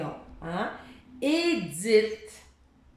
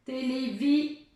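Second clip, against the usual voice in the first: télévi said slowly and left hanging; slow, cut off; 4 semitones higher than usual. Shown as a demonstration. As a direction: drag it out and stop. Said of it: "je vais en enlever une".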